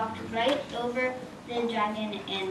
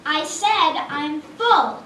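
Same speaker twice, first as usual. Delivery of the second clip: loud slow growl of a fed-up dragon; angry dragon; 7 semitones higher, 9 dB louder, slower than usual. Acted. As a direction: bellow at her to leave. Dragon angrily repeats dismissal.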